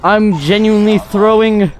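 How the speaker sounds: high, loud wail of disbelief; dismayed shouting. Real, not acted. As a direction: cry out as if the game is slipping away, drawing out the words. Gamer exclaiming after blunder in match.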